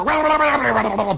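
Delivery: high, energetic wah-wah burst; mock frantic wah routine. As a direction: launch into the act full tilt. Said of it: "You go".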